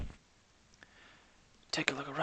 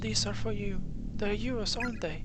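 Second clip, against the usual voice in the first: put-on higher, coaxing girl voice; gentle schoolgirl; 9 semitones higher than usual. Offering tongues to ghost girls.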